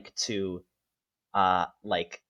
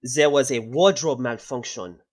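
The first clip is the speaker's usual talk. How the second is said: higher, louder flustered excuse in a put-on voice; flustered apology; 5 semitones higher, 6 dB louder than usual. Student explaining the fall to the headmaster, flustered put-on voice. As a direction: talk fast past the embarrassment.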